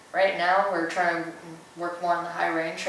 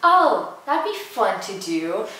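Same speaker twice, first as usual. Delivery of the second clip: excited; 4 semitones higher, 6 dB louder, slower than usual. Retold or imitated. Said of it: "so I was like".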